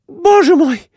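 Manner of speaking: very high, loud, horrified wife's cry; shrill exclaiming wife. A narrator's reading. Wife sees her husband fall, high horrified cry. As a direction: shriek it like a frightened wife. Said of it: "воскликнула она".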